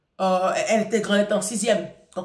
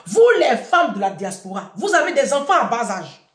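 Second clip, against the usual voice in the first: exhorting; 2 semitones higher, 7 dB louder than usual. Real, not acted. Exhorting diaspora mothers.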